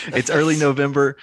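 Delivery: butter up the announcement; buttery smooth voice. Pretend. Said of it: "I'm gonna butter it up".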